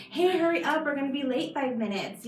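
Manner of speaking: mock urgent nagging. Mom warns her family they will be late, mock urgent. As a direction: nag them lightly to get moving. Acting out herself rushing the family out.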